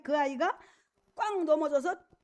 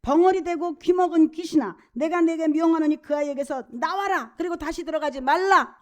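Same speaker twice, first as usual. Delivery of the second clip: firm, commanding declamation with mild heat; stern rebuke; 2 semitones higher than usual. Acted. Preacher voices Jesus ordering a spirit out, mild stern rebuke. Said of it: "귀신을 꾸짖어서 뭐라 그러셔요".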